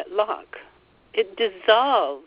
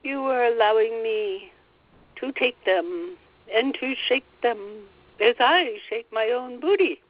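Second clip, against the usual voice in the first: playful spirit voice. Acted. Guide playfully boasts.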